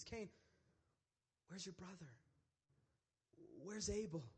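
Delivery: gentle questioning with long pauses; gracious God. Acted. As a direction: ask softly, giving him room to answer. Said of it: "there's still grace in God's eyes".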